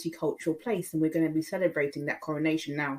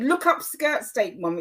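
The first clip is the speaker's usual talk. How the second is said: retorting to mum; 5 semitones higher, 3 dB louder than usual. Retold or imitated. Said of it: "I said".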